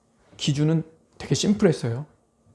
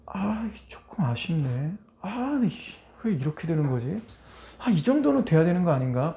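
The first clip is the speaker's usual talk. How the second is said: grumbling whisper; 6 dB quieter than usual. Pretend. Voicing a grumbling heart.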